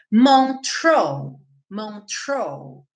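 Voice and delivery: MONTREUX with an English R after the T; anglicised "Montreux", TR sounded; English pronunciation. Shown as a demonstration. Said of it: "Em inglês".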